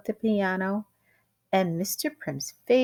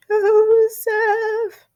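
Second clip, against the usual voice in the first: high, sharp strained whisper; a panicked whisper calling her husband; hoarse whispered name; 8 dB louder than usual. Acted. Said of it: "sharp, hoarse whisper of a voice".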